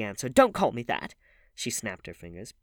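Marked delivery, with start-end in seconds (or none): 0.3-1.1 high, loud objection; heated, forceful command; angry retort. A narrator's reading. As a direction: snap back furiously. Acted quarrel, Dorian snapping back.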